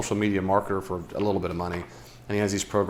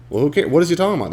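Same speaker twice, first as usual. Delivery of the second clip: mock dismissive; 8 semitones higher, 5 dB louder, faster than usual.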